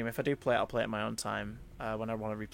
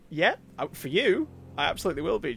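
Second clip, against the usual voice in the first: higher, louder eager promise; eager yes; 5 semitones higher, 6 dB louder than usual. Retold or imitated. Replying to the actress who praised her, eagerly. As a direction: pledge it with eager delight.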